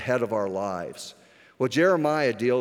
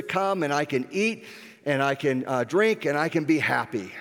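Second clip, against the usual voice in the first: a touch higher, eager and pleased with himself; excited rich man; 4 semitones higher than usual. Retold or imitated. Rich young ruler gloating over his huge harvest, excited. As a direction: play the farmer delighting in his crops, moderately. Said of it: "he's all excited".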